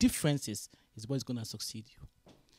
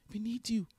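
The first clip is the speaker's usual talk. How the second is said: breathy whispered plea from the boss; 7 semitones higher than usual. Retold or imitated. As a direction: whisper it, begging her to stay.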